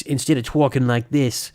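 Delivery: demonstrating a Brooklyn accent; quick sample of a Brooklyn accent. Shown as a demonstration. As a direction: try on a Brooklyn voice. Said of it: "I was gonna do a Brooklyn accent originally".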